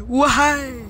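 high cheeky cheer; excited cheer. Real, not acted. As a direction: cheer it out playfully.

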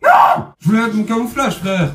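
very high crying shout; wailing protest. Real, not acted. Gamer killed too soon, wailing high in frustration. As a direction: wail in frustration. Killed before using camo.

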